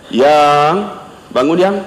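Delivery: tender, drawn-out call; gentle waking. Acted. Husband waking his wife late at night, gentle coaxing.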